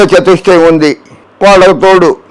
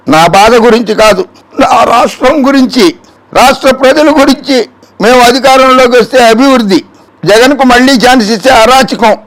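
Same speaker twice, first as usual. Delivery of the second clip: higher-pitched mock campaign speech; declamatory quote; 6 semitones higher than usual. Host quoting a rival's plea for the state, declamatory. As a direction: proclaim it point by point. Voices opponent's campaign pleas.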